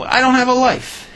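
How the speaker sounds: sudden high plaintive cry, leper to king; pleading leper. Acted. Leper begging the king, high plaintive cry. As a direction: wail it up high like a pitiful beggar.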